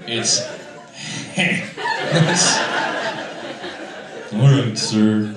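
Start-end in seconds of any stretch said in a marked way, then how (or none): 0.5-4.3 short mocking "heh"; loser laugh. Comic repeating the heckler's laugh, mocking. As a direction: make one dismissive laugh noise. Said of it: "if there's an onomatopoeia for loser".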